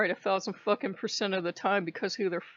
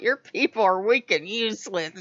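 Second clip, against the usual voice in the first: snarling; 4 dB louder than usual. Retold or imitated. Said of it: "I'm just snarling".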